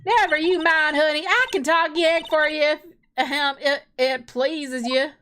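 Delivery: put-on Southern accent. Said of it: "Southern accent localization".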